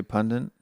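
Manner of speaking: pundit said as "PUN-dint"; American pronunciation. Shown as a demonstration. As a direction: add an n before the final t in pundit. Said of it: "the American way where we say".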